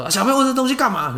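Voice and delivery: high, fast, loud scolding father; angry father. Retold or imitated. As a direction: snap at the child like an angry dad. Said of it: "我爸就很生气".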